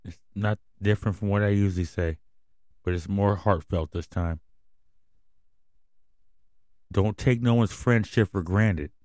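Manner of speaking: soft, choked-up goodbye; quiet emotional farewell to listeners; heartfelt sign-off. Real, not acted. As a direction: hold back the emotion as you sign off. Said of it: "to not get very emotional on this microphone".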